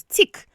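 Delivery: "tick" given as the stressed syllable. Shown as a demonstration. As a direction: land firmly on "tick" by itself. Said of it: "the stress is on the next syllable".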